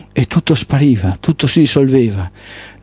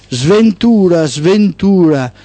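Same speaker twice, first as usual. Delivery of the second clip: shouting daughter of night; 5 semitones higher, much slower than usual. Acted. The daughter of Black Night cries out her own name, high and drawn out. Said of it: "urlò la figlia di nera notte".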